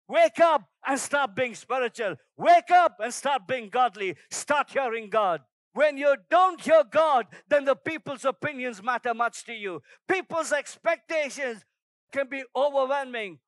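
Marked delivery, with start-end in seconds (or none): 0.1-4.1 loud exhortation. Acted. Repeated exhortation. 4.3-9.8 loud, driving sermon delivery; preaching at full force. Acted. Preacher urging the men to wake up and hear God, loud and driving.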